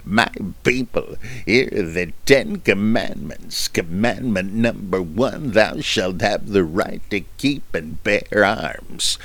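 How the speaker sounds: a hint of a grand epic-film voice; lightly voiced solemn movie Moses; understated mock-biblical pronouncement; Charlton Heston impression. Shown as a demonstration. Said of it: "it's Charlton Heston".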